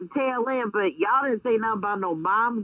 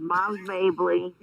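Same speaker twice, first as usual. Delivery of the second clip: over enunciating; 3 semitones lower, slower than usual. Real, not acted. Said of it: "enunciate every syllable".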